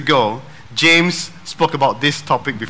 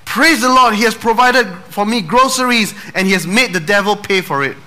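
arms up, shout it to heaven; triumphant shout; 5 semitones higher than usual. Acted. Old lady shouting back at the neighbor in triumph.

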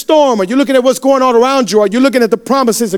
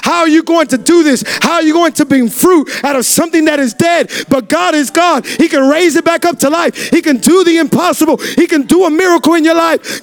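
preaching at full force; 3 semitones higher than usual. Real, not acted. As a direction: build the congregation up. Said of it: "I just started screaming so much".

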